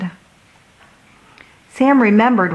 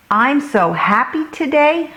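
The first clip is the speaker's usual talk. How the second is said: put-on bright lift on happy, higher child voice; excitedly; 7 semitones higher than usual. A narrator's reading. Hudson telling Sam about his happy day, excited and higher. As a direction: bubble over with joy at school. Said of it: "Hudson said excitedly".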